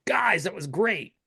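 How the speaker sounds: slow, mildly hammed-up compliment; imitated praise. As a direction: mimic fans gushing, stretching the words. Quoting fans' praise of episode.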